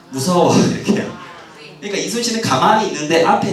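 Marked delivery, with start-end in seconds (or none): 0.1-1.0 mock frightened whisper, half laughing; scared whisper. Lecturer voicing cowardly sailors in a mock scared whisper.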